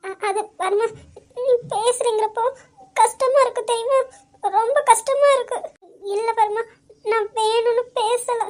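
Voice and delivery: relief spilling out as crying; choked, relieved weeping; laughing through tears. Acted. Wife relieved yet tearful.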